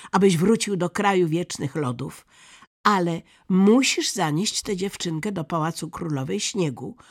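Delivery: put-on bossy robber girl. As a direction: lay down terms briskly and forcefully. Robber girl orders the reindeer.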